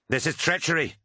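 high, outraged accusation; narrated shout. A narrator's reading. Crewman accusing his commander of treachery, shouted. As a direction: cry it out in outrage, volume contained. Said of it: "shouted Kassar".

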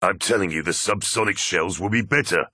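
arguing your point firmly; insistent arguing. Acted. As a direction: press your case with a comrade. Officers arguing over munitions.

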